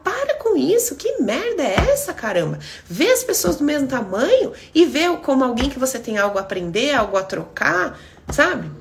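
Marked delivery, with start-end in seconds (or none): 0.0-5.1 high, exasperated scolding; scolding outburst. Real, not acted. Scolding viewers who idolise others, exasperated outburst. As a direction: stop them, fed up.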